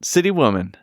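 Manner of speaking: measured spoken reading of lyrics, pauses between lines; lyric recitation. Acted. Host reading the chorus to co-host, measured recital.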